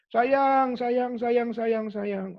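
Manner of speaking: mock kids answering high and eager, fading off; eager children's chorus. Children at the special school answer the man, eager and high. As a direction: echo the word like excited children.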